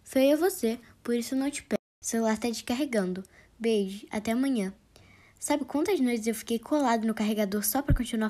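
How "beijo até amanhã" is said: whispering goodbye; whispered goodbye. Acted. Boyfriend whispering goodnight as the phone dies.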